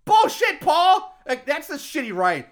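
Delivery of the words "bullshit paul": exasperated. Real, not acted. Exasperated outburst.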